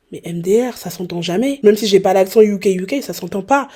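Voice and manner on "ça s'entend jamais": usual speaking voice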